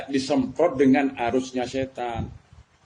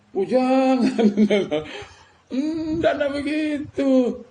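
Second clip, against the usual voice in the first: Prophet gently refusing; 8 semitones higher, slower than usual. Retold or imitated. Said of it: "Tawarin oleh malaikat".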